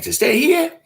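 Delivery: high, loud disbelieving question; incredulous squeal. Retold or imitated. Host to a pushy fan, squealing in disbelief. Retells his reply again.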